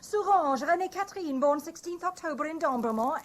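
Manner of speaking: loud, high, reading the passport at him; defiant protest. Acted. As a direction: throw the name at him as proof. She reads her passport out defiantly.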